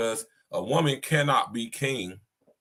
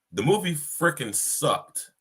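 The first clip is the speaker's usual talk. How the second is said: slow, weighted verdict on movie; a flat-out honest put-down, slowed; blunt, drawn out; 4 semitones higher, slower than usual. Real, not acted. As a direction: lean on each word slowly. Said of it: "just to be honest with y'all".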